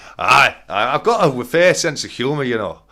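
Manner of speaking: very loud put-on Scottish accent. Answering for an absent guest as a joke: put-on Scottish accent. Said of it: "My attempt at a Scottish accent".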